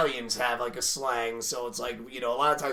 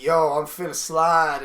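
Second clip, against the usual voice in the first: mock slang voice; 5 dB louder than usual. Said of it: "when a white person says something like".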